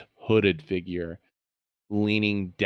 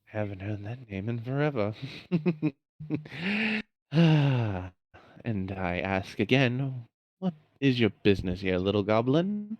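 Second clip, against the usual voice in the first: sinister villain voice; 3 semitones higher than usual. Acted. Villain replies to goblin.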